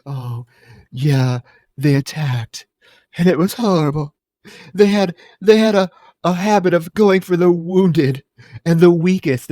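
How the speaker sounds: hammed-up, halting recollection of horror; overdramatic blonde. Blonde survivor recalls the bird attack to interviewer, overdramatic. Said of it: "she's so dramatic".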